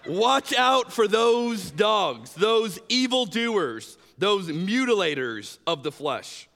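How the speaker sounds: slow, weighty reading of the verse; dramatic scripture reading. Acted. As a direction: read it out slowly, with gravity.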